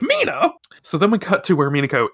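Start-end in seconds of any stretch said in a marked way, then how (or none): 0.0-0.5 calling out. Retold or imitated. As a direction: call after her as she vanishes. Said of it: "he's like".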